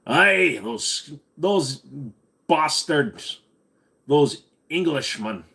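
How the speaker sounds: put-on a stage Scot cursing the Englishmen, Scottish accent throughout; mock Scottish accent. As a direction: streamer playing a Scot who hates the English, Scottish accent. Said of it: "I don't know why I'm trying to go Irish".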